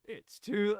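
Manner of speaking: ordinary talk, nothing marked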